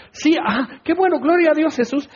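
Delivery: high, airy mock agreement; mock praise. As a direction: imitate disciples cheering along without listening. Disciples half-listening, cheer along absently.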